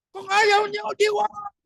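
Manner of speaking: high-pitched emphatic ultimatum; Joshua. Acted. Preacher quotes Joshua to the people, high and emphatic. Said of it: "Sabi ni Joshua".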